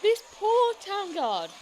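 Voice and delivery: loud, high, drawn-out opening words; emphatic narration. A narrator's reading. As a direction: lean hard on "This poor town guard". Narration swells.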